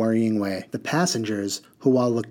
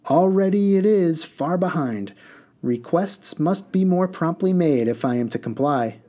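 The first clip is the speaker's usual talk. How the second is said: boisterous bus driver; 6 semitones higher than usual. A narrator's reading. Mister Butt lecturing his passengers while speeding. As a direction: play the cocky driver holding forth.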